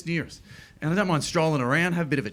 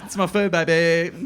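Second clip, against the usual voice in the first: laughing mock. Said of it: "They're like".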